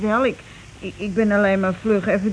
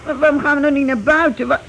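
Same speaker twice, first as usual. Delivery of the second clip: scared pleading; 4 semitones higher, 4 dB louder than usual. Acted. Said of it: "ik krijg er gewoon kippenvel van".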